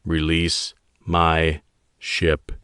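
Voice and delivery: slow, even and cold; each word slow and measured. Acted. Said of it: "his tone even".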